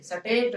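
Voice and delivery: सटेट with a vowel between स and ट; wrong state. Shown as a demonstration. Teacher mocking the wrong सटेट. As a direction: say सटेट as they do. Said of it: "कौन से स्टेट से नहीं बोलते".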